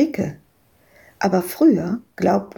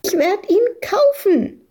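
put-on shrieking girl; 12 semitones higher than usual. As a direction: shriek it back defiantly. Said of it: "kreischte Madita".

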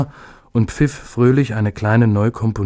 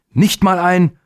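exasperated start; 9 semitones higher, 4 dB louder, slower than usual. A narrator's reading. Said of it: "begann sein Vater noch einmal".

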